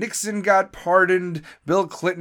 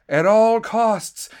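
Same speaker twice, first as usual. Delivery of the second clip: slow, louder, every word hit; emphatic repeat; 4 semitones higher, 4 dB louder, slower than usual. Real, not acted. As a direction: drive each word home slowly.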